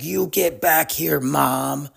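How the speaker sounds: slow, drawn-out mock whine; whining kid. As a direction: imitate a kid whining for mom, without real volume. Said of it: "he started just whining".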